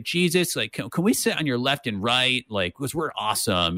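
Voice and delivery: whiny voice. Retold or imitated. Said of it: "the whiny voice".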